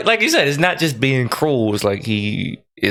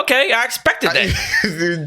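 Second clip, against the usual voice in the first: slow, higher, deadpan shrug; mock unimpressed; 10 semitones higher, slower than usual. Onlookers seeing a skinny guy's bird chest, slow and unimpressed. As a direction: say it like a bored onlooker. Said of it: "people say something like".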